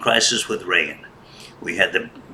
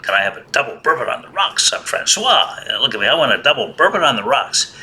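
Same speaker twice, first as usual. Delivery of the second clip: louder, bellowing the bar order in a library; 5 semitones higher than usual. Retold or imitated. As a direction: call out for the bourbon like he's in a bar. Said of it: "And he said it quite loud".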